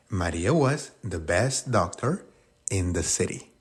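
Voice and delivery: slow, careful English; slow model sentence. Shown as a demonstration. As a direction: read the answer slowly to the class. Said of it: "Si esa fue tu oración".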